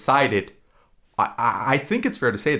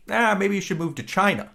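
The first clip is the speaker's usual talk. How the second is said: higher, breezy throwaway line; offhand boss suggestion; 10 semitones higher than usual. Retold or imitated. Future boss brushing off a quitting employee, lightly voiced and higher. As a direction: toss it off lightly like a boss shrugging. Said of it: "And Jeff Daniels goes".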